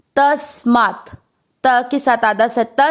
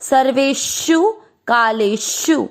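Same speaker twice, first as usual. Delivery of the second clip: slow verse recitation; 2 semitones higher, slower than usual. Shown as a demonstration. Teacher reciting the Gita line slowly for students to follow. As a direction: chant each syllable of the verse slowly and evenly. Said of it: "repeat करेंगे".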